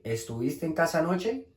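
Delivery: "Estuviste en casa anoche" climbing to a high anoche; question intonation. Shown as a demonstration. Teacher showing Spanish questions, rising question intonation. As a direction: ask "Estuviste en casa anoche" with a steady rise to the end. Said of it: "solamente la entonación".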